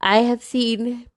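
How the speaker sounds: words stretched out, spoken through a yawn. Explaining a view on past lives to listeners, speaking through a yawn. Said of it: "sorry, I'm yawning".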